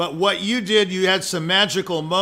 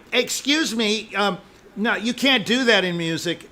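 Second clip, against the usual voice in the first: prissy critic; 3 semitones higher than usual. Retold or imitated. Teacher mocking competition judges, fussy objection. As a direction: mimic a pedantic contest judge. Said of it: "these goofballs that say".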